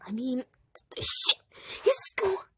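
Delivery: high, loud bossy defiance; possessive defiance. Acted. Blackberry refusing Pap's advice, high and loud. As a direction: insist on it like a spoiled boss.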